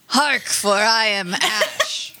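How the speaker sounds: slow gruff mock-archaic declaration; gruff herald voice. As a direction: proclaim it slowly with a gruff voice. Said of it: "The gruff voice?".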